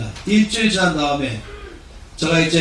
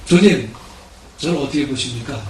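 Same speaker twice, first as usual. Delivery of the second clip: bursting out to God; 3 semitones lower than usual. Retold or imitated. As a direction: let it burst out after a week of despair. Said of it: "드디어 터진 말이".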